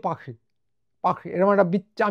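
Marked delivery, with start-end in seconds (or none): 0.1-0.3 French way of saying Paris; mimicked French accent. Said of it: "মনে হবে ওরা বলছে". 1.0-1.3 rough try at French Paris; attempted French accent. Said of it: "আমি করতে পারলাম না".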